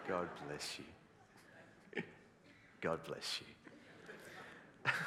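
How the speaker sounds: mock-solemn slow blessing; slow, drawn-out blessing. Shown as a demonstration. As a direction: stretch God bless you very slowly and low.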